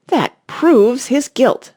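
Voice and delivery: high, loud and very slow, a put-on voice; imperious Queen. Queen condemning the Knave to the court, slow and imperious. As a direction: drag each word out like a haughty queen.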